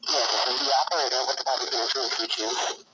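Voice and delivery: tinny crackly phone line. Real, not acted. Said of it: "It sounds like a nineteen sixties rotary phone".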